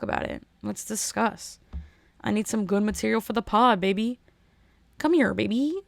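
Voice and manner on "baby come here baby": lightly voiced Kermit cooing at food. Calling her podcast baby in a mild Kermit voice. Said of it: "That's Kermit".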